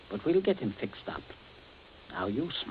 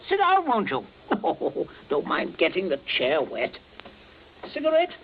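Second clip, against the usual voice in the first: forced jollity; 5 semitones higher, 3 dB louder than usual. Acted. Forced host cheer.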